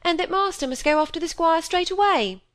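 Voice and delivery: a country groom bringing bad news; groom's voice. A narrator's reading. Groom delivering news of the death, urgent.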